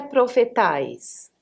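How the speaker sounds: "profetais" stressed on the last syllable, TAIS; alternative stress. Shown as a demonstration. Teacher offering another option, "profetais" stressed on TAIS. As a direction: land slowly on TAIS in "profetais". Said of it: "Qual seria?".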